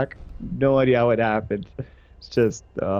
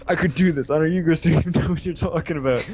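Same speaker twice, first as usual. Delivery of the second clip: higher, insistent drunk-friend imitation; mock a drunk who insists he's fine; imitated drunken bluster; drunken insistence; 4 semitones higher than usual. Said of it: "he was so insistent".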